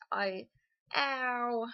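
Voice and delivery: mock Cockney exclamation; imitated Cockney accent. Shown as a demonstration. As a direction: toss out an Eliza Doolittle Cockney cry. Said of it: "And then there's the Cockney".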